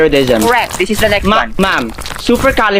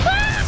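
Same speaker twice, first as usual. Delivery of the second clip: acted high-pitched shriek; short piercing cry; very high scream; 6 dB quieter than usual. Frightened in the battle skit. (matinis na sigaw)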